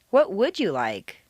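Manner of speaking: emphatic "would", the rest dropping away; stress on WOULD. Shown as a demonstration. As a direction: lean on "would" to pin down the wish. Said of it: "changes each time we change the stress pattern".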